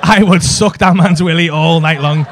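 laughing. Real, not acted. Laughing through crude boast.

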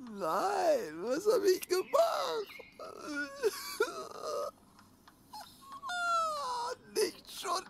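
high, sobbing cry of despair; despairing wail. Acted. Host over the dead boy, high sobbing wails. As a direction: wail as it dawns on him.

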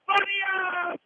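loud, ringing name call; breathless italian goal commentary. Real, not acted. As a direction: shout the scorer's name. Equaliser goal called live. (grido del marcatore)

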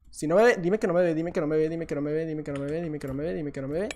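a fading, repeated hushed plea; hushed pleading. Real, not acted. Hiding from the enemy player, a hushed pleading chant.

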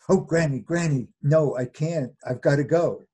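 a touch of urgency in a storyteller's voice; mildly urgent protest. Acted. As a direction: play a girl begging off, lightly. Girl pleading to escape in story.

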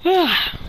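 real tired yawn. Real, not acted. Tired player after a long day, yawning. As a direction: let out a sleepy yawn. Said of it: "Sorry, I'm, I'm yawning".

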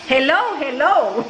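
mock fancy English "hello, hello", slow; mock posh English. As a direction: put on a fake proper English. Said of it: "Yo no voy a estar". (burlándose del inglés fingido, lento)

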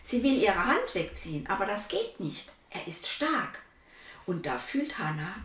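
put-on lively read-aloud voice for children; story narration. A narrator's reading. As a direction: tell the story to little listeners. (Vorlesestimme für Kinder)

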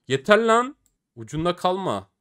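high, loud angry outburst; fed-up shout. Real, not acted. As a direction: snap in frustration. Yet another near miss.

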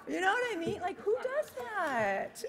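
high, loud laugh through the words; laughing hard as she asks. Real, not acted. Laughing at her own joke.

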